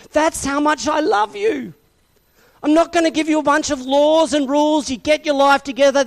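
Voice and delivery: high, impassioned voice of God; passionate divine declaration. Acted. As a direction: declare love urgently, pitched high, speeding up. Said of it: "Can you feel the passion of God".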